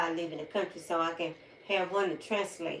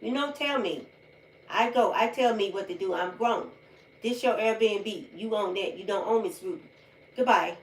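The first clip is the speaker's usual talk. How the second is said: defiant retort; 2 semitones higher, 5 dB louder than usual. Retold or imitated. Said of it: "I said".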